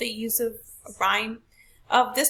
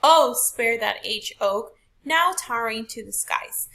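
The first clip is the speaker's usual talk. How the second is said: rhythmic poem reading; 5 dB louder than usual. Shown as a demonstration. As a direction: read it to show the beat. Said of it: "let's go back and read it".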